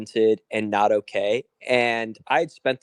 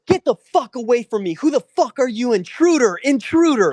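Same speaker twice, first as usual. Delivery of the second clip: very high, loud mock screech; imitated panicked screaming; 11 semitones higher, 6 dB louder than usual. Friend imitates confused woman screaming at intruder, high mock yell. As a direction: shriek it high as if at a stranger, imitating her. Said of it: "like, screaming at me".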